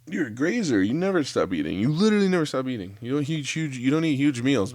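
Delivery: high, exasperated ribbing of a friend; mock disbelief, needling him about snacking; incredulous buddy. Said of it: "my buddy's like".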